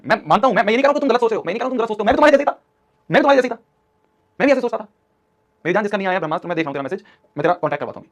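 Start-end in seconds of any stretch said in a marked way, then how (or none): 0.1-4.8 much higher and louder, pleading with the class; earnest plea. Real, not acted. Teacher pleading with students that he was once like them, high and loud. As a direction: insist you were just like them.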